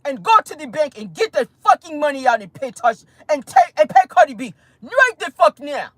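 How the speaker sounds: bossy orders in a put-on African accent. Investigators ordering Tasha K to the bank, mock African accent. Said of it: "Y'all like my, uh, African accent?".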